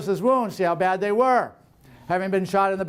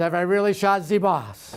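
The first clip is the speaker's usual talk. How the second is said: put-on French-accented speech. Imagining Cruzatte's thoughts after the captain was shot, Cruzatte's French accent. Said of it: "in his French accent".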